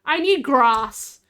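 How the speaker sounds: slow need grass. Real, not acted. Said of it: "That didn't sound right".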